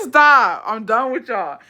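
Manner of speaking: loud laugh then laughing protest. Real, not acted. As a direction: laugh and cry stop.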